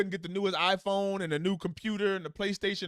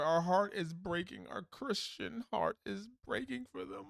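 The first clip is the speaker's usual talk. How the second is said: mock pity. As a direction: parody of a pious American crying for foreigners. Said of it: "It's not about democracy".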